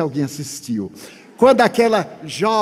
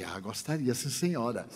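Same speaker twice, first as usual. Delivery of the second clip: meek quiet yes; 7 semitones lower, 14 dB quieter than usual. Retold or imitated. Meek acceptance of hostess's offer.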